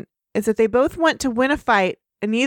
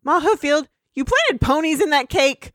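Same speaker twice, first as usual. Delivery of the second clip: mock accusing; 5 semitones higher than usual. Acted accusation between feuding families.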